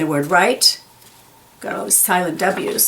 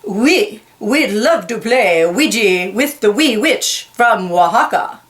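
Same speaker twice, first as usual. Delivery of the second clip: French leopard; 2 semitones higher than usual. Acted. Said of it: "The French leopard says".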